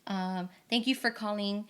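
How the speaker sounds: lightly polite phone-agent read; customer service script. Shown as a demonstration. Host to guest, lightly modeling a phone script. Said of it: "let's just do a script".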